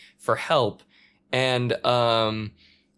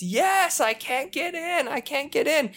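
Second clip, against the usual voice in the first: pleading man. Retold or imitated. Old man pleading at door.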